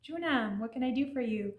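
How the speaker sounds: tender, lifted reply; like answering someone you love; sweet Junam. Shown as a demonstration. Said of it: "like, sweet".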